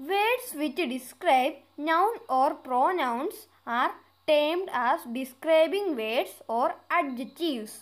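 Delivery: slow, deliberate read-aloud of an English exercise; careful dictation pace; slow textbook reading. Acted. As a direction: read each word out clearly for the class. Reads definition slowly.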